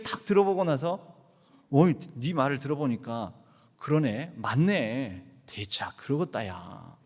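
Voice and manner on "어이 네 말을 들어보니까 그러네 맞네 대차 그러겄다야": a lower, easy Jeolla voice of God agreeing; God nodding along in Jeolla, unhurried; God in Jeolla dialect. Acted. God answering the daughters, low relaxed Jeolla dialect. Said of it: "하나님의 반응을 우리 전라도 말로".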